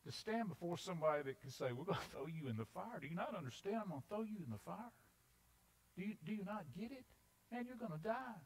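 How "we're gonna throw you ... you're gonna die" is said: high, quick disbelieving questions; mock incredulous. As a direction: act baffled that they don't get it. Acts out threatener's disbelief at them.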